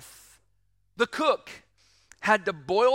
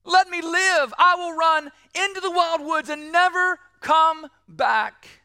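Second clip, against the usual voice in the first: put-on pleading child; 4 semitones higher, 4 dB louder than usual. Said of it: "she began to cry, saying".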